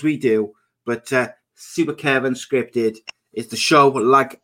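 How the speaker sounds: brisk host's welcome spiel; podcast intro. Acted. Host welcomes listeners to the podcast, polished intro delivery. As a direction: deliver a practised show opening.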